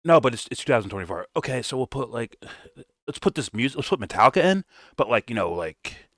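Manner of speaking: half-hearted impression of lazy writers; mock filmmaker.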